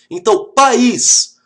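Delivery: "país" stretched slowly, pa-ís split; slow syllable demo. Shown as a demonstration. Teacher contrasting paz and país, slow "país". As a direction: draw out "país" into two syllables. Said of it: "a diferença clássica".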